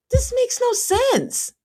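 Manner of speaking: high, slow, drawn-out disbelief; high slow exasperated disbelief. Real, not acted. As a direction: stretch it out, baffled and fed up. Exasperated at Emmy's friends.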